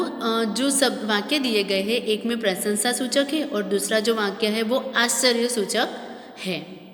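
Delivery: normal talking voice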